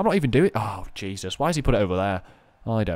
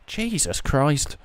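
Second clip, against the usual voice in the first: slow drawn-out disbelief; 4 semitones higher, much slower than usual. Real, not acted. Gamer repeats reaction, drawn out.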